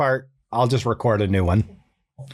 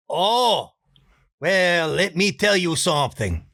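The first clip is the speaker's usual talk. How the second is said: put-on higher, sly confiding Spanish-accented voice; Juan voice; 5 semitones higher than usual. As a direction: lean in to share a secret. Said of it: "Juan's next line".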